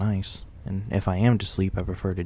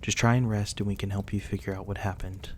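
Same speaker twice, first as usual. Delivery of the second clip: softer, gentle reassurance to rest; soft goodnight; 5 dB quieter than usual. Acted. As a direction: soothe them toward sleep. Saying goodnight to the injured guest.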